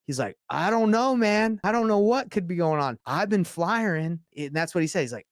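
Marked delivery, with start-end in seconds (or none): 0.5-4.2 mock defensive denial. Imitating worker's defensive denial.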